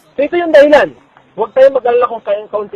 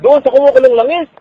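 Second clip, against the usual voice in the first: preaching force; 6 semitones higher, 6 dB louder than usual. Real, not acted. Preacher's climax, raised voice.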